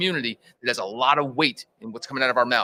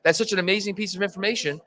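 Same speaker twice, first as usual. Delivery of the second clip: imitating own awed excitement, higher pitched; retold amazement; 5 semitones higher than usual. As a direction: gush like an amazed convert. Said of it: "I said the same thing".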